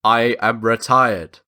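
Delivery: measured, weighty brush-off, each word set apart; firm refusal. Acted. Voicing weary retired spy refusing work.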